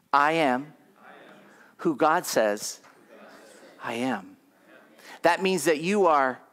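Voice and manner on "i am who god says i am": firm, deliberate declaration in short phrases; like meaning it. Shown as a demonstration. Pastor has congregation repeat their identity, said like they mean it. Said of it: "Now say it like you mean it".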